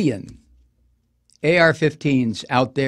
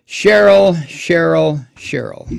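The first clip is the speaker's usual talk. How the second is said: sincere pity; 3 dB louder, slower than usual. Real, not acted. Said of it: "I don't say this with condescension".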